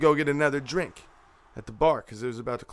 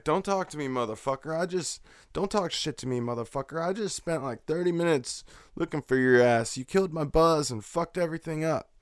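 mildly heated, higher-pitched scolding; retold angry rant; 5 semitones higher than usual. Fed-up searcher telling off drunk brother, retold annoyance. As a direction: re-enact telling him off, pitched up but not shouting.

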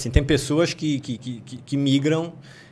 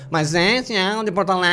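put-on sing-song Porto Alegre accent; 3 semitones higher than usual. Showing the accents of Rio Grande do Sul, sing-song Porto Alegre. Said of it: "Tem uns que é bem cantado".

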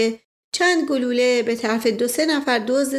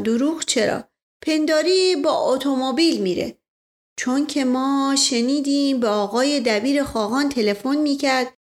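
put-on isfahani accent; 3 semitones higher than usual. Mash Ghasem replies.

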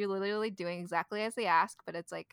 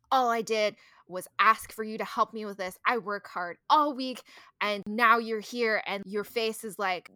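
mild mock scolding; 4 dB louder than usual. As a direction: imitate a mother laying on the guilt. Imitating mom's scolding in retold story.

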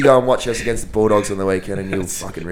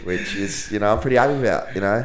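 croaky voice. Real, not acted. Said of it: "he's got, got a bit of a croaky voice".

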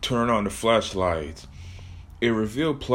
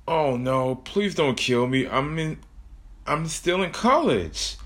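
mock frightened begging, rising higher; pleading victim; 4 semitones higher than usual. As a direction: plead for your life, pitch climbing. Victim begs for life.

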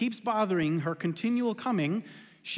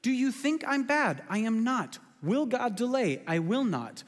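emphatic God voice; 6 semitones higher than usual. Retold or imitated. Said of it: "And so God says".

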